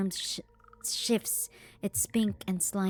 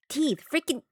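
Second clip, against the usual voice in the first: horrified outburst; 6 semitones higher than usual. Acted. Horrified exclamation.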